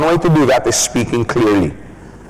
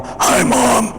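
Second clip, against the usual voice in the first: lost voice; 8 semitones higher than usual. Acted. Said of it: "I've lost my voice".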